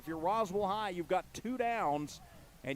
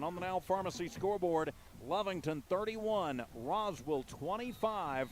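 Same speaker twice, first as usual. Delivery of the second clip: out of breath; winded, catching breath between phrases; breathless at high altitude. Real, not acted. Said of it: "I'm out of breath up here".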